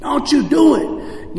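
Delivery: mild mock yell, rising in pitch; retold yelling. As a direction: warn her off, pitch climbing without real volume. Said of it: "I'm yelling in the hallway".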